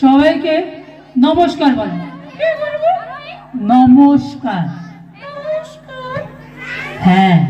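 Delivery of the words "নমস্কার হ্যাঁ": goofy muffled sock puppet. Acted. Puppet greets the school audience.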